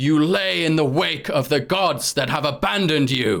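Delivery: mock grand booming voice. Retelling a woman addressing everyone from a stage, in a loud booming voice. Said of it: "she begins in this booming voice".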